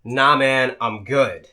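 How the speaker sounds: low, measured refusal; restrained patience. Retold or imitated. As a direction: hold back a yell and decline evenly. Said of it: "close my eyes and take a breath".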